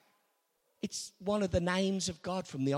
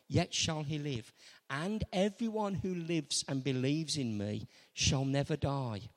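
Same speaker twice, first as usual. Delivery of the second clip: solemn scripture; 8 semitones lower than usual. Retold or imitated. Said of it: "Jesus said to her".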